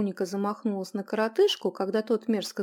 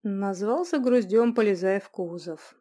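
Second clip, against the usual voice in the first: sad; 4 dB louder than usual. Acted. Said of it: "печально проговорил юноша".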